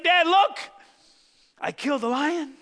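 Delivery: put-on high, loud boasting boy; proud kid. Boy bragging to his dad about the lion, high and loud. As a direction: show off to Dad.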